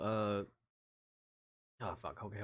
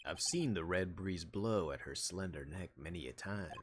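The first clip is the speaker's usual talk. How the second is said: lightly voiced Texas lawman; a touch of folksy cowboy storytelling. Marshall sharing old ranch wisdom, cowboy. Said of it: "I love doing the cowboy voice".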